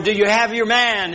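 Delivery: shouted high across the water; hollered. Retold or imitated. People on shore shouting to the returning boat, a high loud holler. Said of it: "they hollered".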